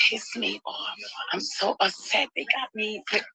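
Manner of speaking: holding back angry tears; near tears. Real, not acted. Upset traveller to her viewers, quiet and tearful. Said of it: "tears in my eyes 'cause I'm so angry".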